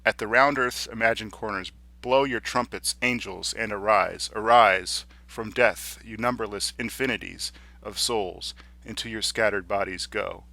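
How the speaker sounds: declaimed poem with heavy, irregular stresses; dramatic, halting verse reading; uneven-metered verse recitation. Shown as a demonstration. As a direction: recite in bursts, leaning on key words. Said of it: "listen to these lines from John Donne".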